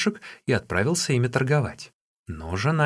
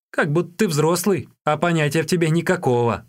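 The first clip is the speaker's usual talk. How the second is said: high, exasperated exclamation; exclaiming; 6 semitones higher, 3 dB louder than usual. A narrator's reading. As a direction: exclaim it in reproach. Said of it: "воскликнул Юньге".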